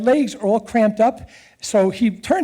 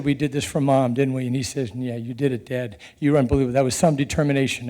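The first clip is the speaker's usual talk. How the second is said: lower, softer, moved voice; choked up; 6 semitones lower, 4 dB quieter than usual. Real, not acted. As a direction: hold back tears as you say it. Emotional finish, hugging son.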